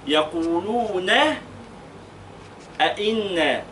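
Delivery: يقولون أئنا said slowly, the نون in أئنا held; slow careful recitation; slow tajweed recitation. Shown as a demonstration. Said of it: "إن، فين بقى؟".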